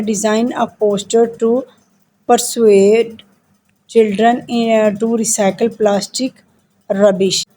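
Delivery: slow, deliberate read-aloud of instructions; measured classroom dictation pace; slow textbook reading. Acted. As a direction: read each word out carefully for the class. Teacher reads textbook task.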